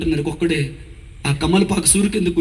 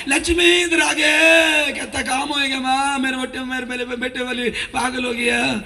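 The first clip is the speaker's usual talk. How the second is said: grandmother's angry yell; 8 semitones higher than usual. Retold or imitated. Preacher mimics his grandmother shouting at his mother, high angry yell. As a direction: shriek it like a furious old mother-in-law.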